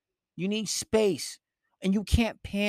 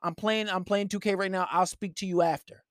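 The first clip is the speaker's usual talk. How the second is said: calm firm brush-off. Shown as a demonstration.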